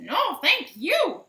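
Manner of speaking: high, loud, slow teasing no thank you; sing-song refusal like a sassy hen; drawn-out cheeky chicken reply. Acted.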